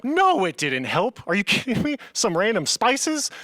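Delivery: drawn-out, incredulous retort; mock outrage at a useless remedy; indignant disbelief. Indignant retort to mom, retold.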